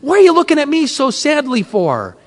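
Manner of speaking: retold screaming out. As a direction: plead upward, drawing out the praise. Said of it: "I was screaming out".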